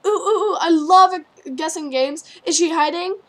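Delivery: high, loud, bouncy squeals; excited. Acted. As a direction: squeal it with glee. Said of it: "saying excitedly".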